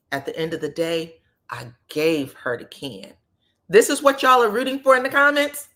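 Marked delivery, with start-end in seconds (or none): 0.1-3.1 mock self-important claim. Husband claiming credit for his ex's new man, mock self-important. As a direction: imitate him laying down his final word, low.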